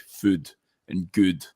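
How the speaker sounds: slow "food" and "good" with Scottish vowels; Scottish double O. Shown as a demonstration. Scot showing his own "food" and "good", Scottish vowel. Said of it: "double O signs, like, I s-, I say".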